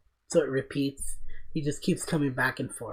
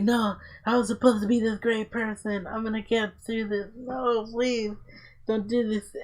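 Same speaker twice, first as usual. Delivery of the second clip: pleading; 8 semitones higher than usual. Retold or imitated. Pleading character in retold scene.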